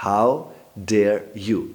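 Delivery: drawn-out, loud How dare you; slow indignant demand. Shown as a demonstration. Teacher repeats the angry line slowly. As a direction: stretch each word in outrage. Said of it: "D A R E, dare।".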